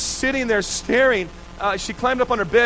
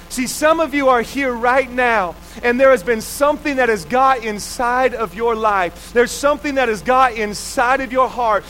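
preaching. Acted. Pastor urging the congregation toward hope, preaching at full force. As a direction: drive the message home to the congregation.

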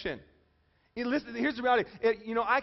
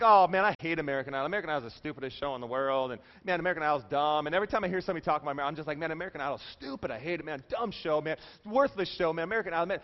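fast, grumbling tirade; hammed-up griping; mock disgusted rant; 4 semitones lower, faster than usual. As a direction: rattle off your disdain in a rush. Acting out an Idol hater's rant.

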